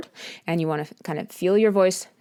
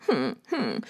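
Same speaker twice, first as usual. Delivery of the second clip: low whimper; 5 dB quieter than usual. Shown as a demonstration. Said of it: "you could do it lower if your voice is lower".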